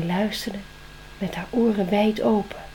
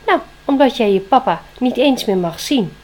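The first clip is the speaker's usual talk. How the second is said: grave owl; 3 semitones higher, 7 dB louder than usual. Acted. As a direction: lean hard on the verdict. Owl answers Spring.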